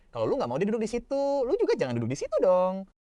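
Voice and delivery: high indignant protest. Acted. Suji protesting to Joan Kian, high and indignant. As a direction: complain sharply as Suji. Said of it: "Suji ... langsung protes".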